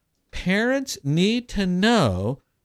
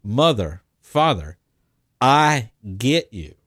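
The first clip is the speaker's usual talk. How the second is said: calm and firm; 5 semitones lower than usual. Shown as a demonstration. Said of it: "stand firm and say".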